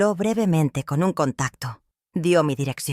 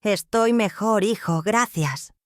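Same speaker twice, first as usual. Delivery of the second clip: slow, gentle, a touch higher; softest voice; 5 semitones higher, slower than usual. Acted. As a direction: sound fragile and soothing for the son. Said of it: "Usé mi voz más suave".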